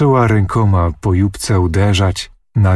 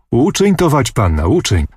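cheerful call; 3 semitones higher than usual. Acted. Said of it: "zawołał rozochocony miecznik".

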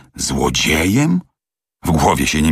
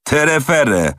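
higher mock dismissal; scornful nonsense-word, pitched up; scoffing; 10 semitones higher, slower than usual. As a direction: brush it off with a sneer. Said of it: "szyderczym wzrokiem".

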